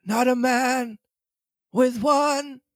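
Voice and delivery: gasped question. Acted. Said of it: "he gasped".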